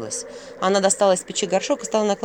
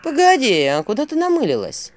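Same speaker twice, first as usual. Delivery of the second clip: louder, higher indignant protest; indignant owl; 7 semitones higher, 5 dB louder than usual. A narrator's reading. Owl protesting as Vasilisa heads for the hut, indignant. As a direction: call after her, outraged. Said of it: "возмутился Филин".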